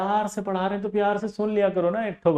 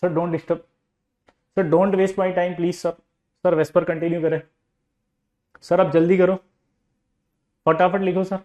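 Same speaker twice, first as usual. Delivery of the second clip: 1 meek obedient student; slower than usual. Retold or imitated. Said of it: "अब बच्चा कैसे".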